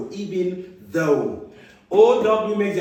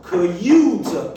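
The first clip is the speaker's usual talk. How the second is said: loud drill; 6 dB louder than usual. Shown as a demonstration. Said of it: "U space E as in cute".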